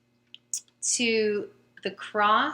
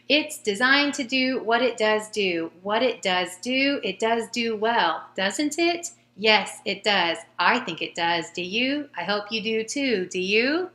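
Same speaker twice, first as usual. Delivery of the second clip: bouncy sing-song read aloud; lively tongue twister read. Shown as a demonstration. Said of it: "say this out loud".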